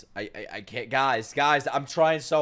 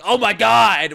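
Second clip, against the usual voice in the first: mock shocked reaction; 3 semitones higher, 7 dB louder, slower than usual. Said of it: "You thought I was gonna react like".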